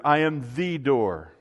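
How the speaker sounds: "the" said as a long "thee" before "door"; stress on THE. Shown as a demonstration. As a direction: settle firmly on "the" as definitive. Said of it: "in that definitiveness".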